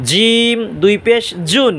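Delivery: "জিম" drawn out, with a firm j from the palate; slow recited "জিম" with a hard Arabic j; mid-tongue J. Shown as a demonstration. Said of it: "জিব্বার মাঝখান".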